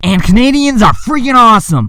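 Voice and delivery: excited, gushing outburst, high and loud.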